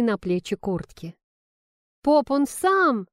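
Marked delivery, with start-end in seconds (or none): 2.1-3.1 high, loud, slow desperate yell. Acted. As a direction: cry it out to defend herself. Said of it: "завопила Ленка".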